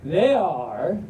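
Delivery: Southern storybook drawl with lingering vowels. Acted. Reader gushing over adorable pups in trucks, Southern drawl. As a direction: stretch it out, folksy and Southern. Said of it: "but in a Southern drawl".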